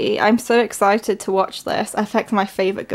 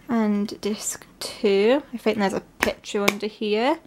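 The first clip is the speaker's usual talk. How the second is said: whisper; 5 dB quieter than usual. Real, not acted. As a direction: breathe it out quietly. Whispering while unboxing.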